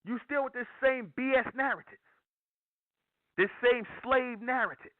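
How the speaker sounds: high-pitched, insistent preaching; preaching at full force. Real, not acted. Preacher confronting listeners still living like the dead, high-pitched insistent preaching.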